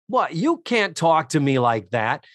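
lightly indignant Boston dad; partial Boston accent. Retold or imitated. Sitcom dad answering his daughter's insult, partial Boston accent. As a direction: protest with a half Boston accent. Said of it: "I'm doing a partial Boston accent".

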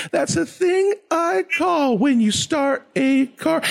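very high, sing-song, measured rhythm; kids' show host explaining things in a high voice; DJ Lance Brock. Acted. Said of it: "I'm totally gonna do that".

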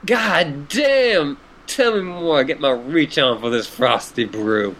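laid-back goofy clown drawl; silly clown. Acted. Gamzee voice again.

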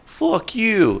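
mock mouthing off. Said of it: "mouth off and go".

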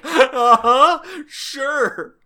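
very high, loud squeaky voice; squeaky mock reply. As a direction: squeak out a panicked agreement. Driver answers her scolding.

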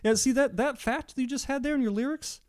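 high, loud mock detective gotcha; mock cop. Podcaster playing the cop confronting the rapper, high and loud.

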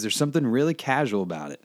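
casual Southern lilt; slip into Southern accent. Real, not acted. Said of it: "You just got it".

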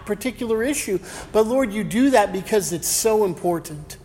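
hushed, earnest pulpit prayer; opening prayer before the sermon, reverent. Acted.

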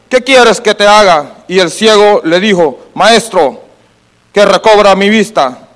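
steady, projected Bible reading; scripture reading. Acted. Preacher reads the Gospel story to the congregation, projected scripture reading. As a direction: read the passage out to the congregation in full voice.

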